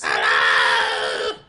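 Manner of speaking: low, loud put-on hello; deep mock voice. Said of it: "that's what he does for a female voice".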